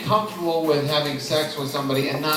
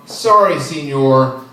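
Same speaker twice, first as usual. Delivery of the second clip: "Sorry, senor" a bit louder in a lightly put-on guard voice; mock border guard; 7 dB louder than usual. Imagined rest area guard refusing a traveler, mildly mocking and loud. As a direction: play a smug border official turning him away. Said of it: "it's almost like they're going".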